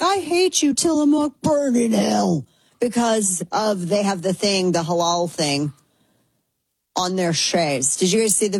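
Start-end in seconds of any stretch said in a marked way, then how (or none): 0.0-2.5 much higher, hammed-up angry rant; mock the furious posters in a high squeal; mock outraged internet user. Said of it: "people are like".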